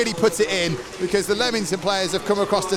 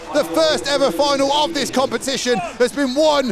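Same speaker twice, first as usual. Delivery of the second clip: live play-by-play; 3 semitones higher than usual. Acted. Live match commentary, final whistle.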